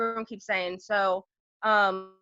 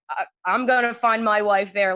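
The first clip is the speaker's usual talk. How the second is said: louder, dead serious mock declaration; hammed-up solemn promise, a bit louder; mock earnest vow; 5 dB louder than usual. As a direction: imitate a boy vowing it in earnest. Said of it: "completely serious".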